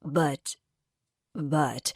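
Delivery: low halting repeats; a mild nervous stammer. A narrator's reading. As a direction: trip over the word but. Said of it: "he stammers".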